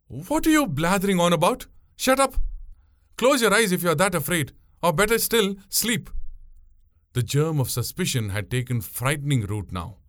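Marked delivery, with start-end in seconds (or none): 0.1-6.1 raised, impatient telling-off; exasperated scolding. A narrator's reading. Boatwoman silencing a frightened passenger, exasperated. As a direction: scold a silly coward, pitch lifted.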